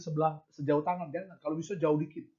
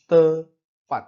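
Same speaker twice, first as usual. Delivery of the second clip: emphatic; 12 dB louder than usual. Real, not acted. Preacher insisting God is on time.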